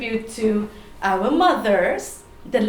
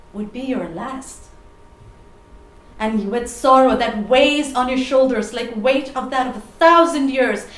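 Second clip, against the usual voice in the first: spoken word poem. Acted. Poet remembering a lost mother, dramatic spoken word. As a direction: recite with deliberate pauses, surging and falling back. Performs her poem on grief.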